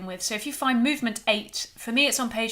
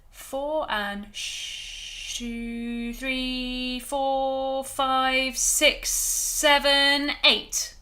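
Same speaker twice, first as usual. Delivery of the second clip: crescendo sh count; much slower than usual. Shown as a demonstration. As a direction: let the count swell from a hush to a push. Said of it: "the sh is actually gonna crescendo".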